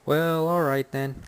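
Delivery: slow, drawn-out dismissive sign-off; casually closing an awkward moment; breezy brush-off. Shown as a demonstration. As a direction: say it like you're getting up to leave. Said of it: "just go".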